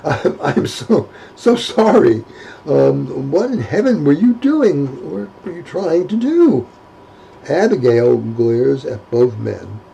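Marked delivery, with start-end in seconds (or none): 0.0-6.7 stuttering apology. Acted.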